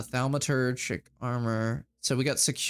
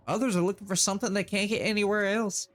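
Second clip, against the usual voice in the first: sultry bartender; 6 semitones higher than usual. Acted. Bartender telling the runner what the bar offers, knowing voice. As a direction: lay it out knowingly.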